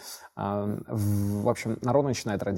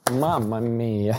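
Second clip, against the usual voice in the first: drawn-out Italian mamma mia; slow Italian exclamation; much slower than usual. Pretend. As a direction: say it like a dramatic Italian.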